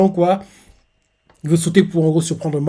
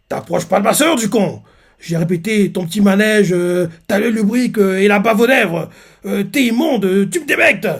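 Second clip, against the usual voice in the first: higher, heated tirade; protective rant; 4 semitones higher than usual. Retold or imitated. Lance warning Kevin off his sister, heated higher rant. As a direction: rant at him like an overprotective brother. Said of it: "il dit ça comme ça".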